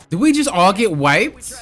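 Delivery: loud, slow disbelief; shocked outburst. Real, not acted. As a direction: let the shock drag each word. Shocked at team wipe.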